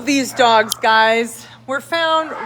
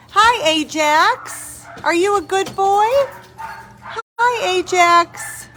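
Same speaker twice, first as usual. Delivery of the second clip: talking to a dog; 7 semitones higher than usual. Real, not acted. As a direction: coo at the puppy.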